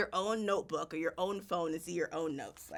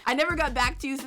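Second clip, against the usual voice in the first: reading in disbelief; 6 semitones higher, 7 dB louder, faster than usual. Acted. Rereading in disbelief.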